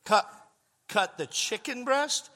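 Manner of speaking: rising, slowed disbelief; incredulous. Retold or imitated. Repeating her request back in disbelief, incredulous.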